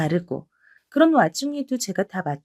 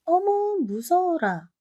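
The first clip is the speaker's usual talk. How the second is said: sarcastic fake fright; 6 semitones higher, slower than usual. Younger sister-in-law mocking the elder's anger with fake fright. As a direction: pretend to be scared, sneering.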